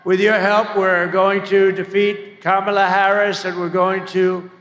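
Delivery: loud rally slogan finish; rally speech. Real, not acted. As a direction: drive the slogan home. Rally closing line.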